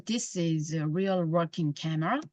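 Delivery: very slow, words flowing together; slow linked reading. Shown as a demonstration. Teacher showing linked sounds, in a very slow linked read. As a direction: link "This is" smoothly into the rest. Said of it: "붙여서".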